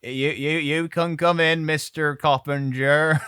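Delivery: family greets the shipwrecked giant, put-on polite; mock welcome. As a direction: welcome the big stranger in, slowly. Family welcoming Coppinger, acted.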